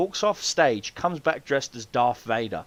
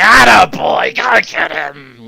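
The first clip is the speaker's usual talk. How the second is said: big hammed-up cheer; 3 semitones higher, 12 dB louder, slower than usual. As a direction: holler mock encouragement after someone, stretching the words. Cheers on man walking away.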